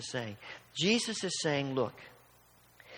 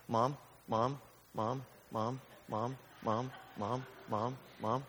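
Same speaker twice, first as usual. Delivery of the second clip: put-on nagging child; 4 semitones lower, 7 dB quieter, slower than usual. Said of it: "The next best thing".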